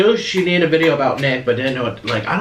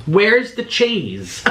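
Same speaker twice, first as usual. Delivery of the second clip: slow dismayed question; 4 semitones higher, much slower than usual. Real, not acted. Outraged at missing cheese.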